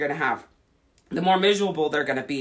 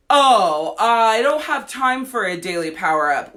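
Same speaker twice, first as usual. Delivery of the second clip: imitating an excuse; 3 semitones higher, 5 dB louder than usual. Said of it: "when somebody says that".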